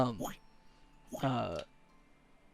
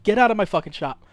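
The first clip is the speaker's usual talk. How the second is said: higher, quick exasperated order; fed-up shopkeeper; 5 semitones higher, 4 dB louder, faster than usual. Acted. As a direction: throw them out in a hurry. Shopkeeper throws the customers out.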